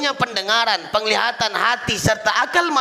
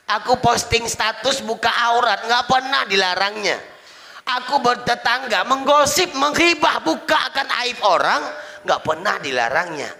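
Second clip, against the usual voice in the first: acted complaint; 4 semitones higher than usual. Wife's mounting complaint to God.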